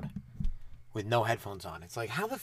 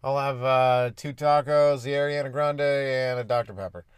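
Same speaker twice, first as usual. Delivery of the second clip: louder, projected ordering voice; mock drive-thru yell; 5 dB louder than usual. Customer yelling an order through Taco Bell drive-thru, mock yell. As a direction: call the order out to a speaker box. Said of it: "you'd yell through a Taco Bell drive-thru".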